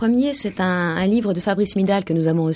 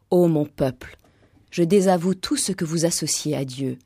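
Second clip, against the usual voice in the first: solemn scripture reading; 2 semitones lower than usual. Acted. Host reading the Quran story of Abraham on air, solemn and measured. Reads a Quran passage aloud.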